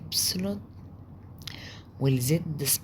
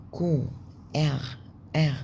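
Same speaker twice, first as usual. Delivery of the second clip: whispered letters. Shown as a demonstration. Teacher whispering German letters to the class. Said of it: "إر أو إغ".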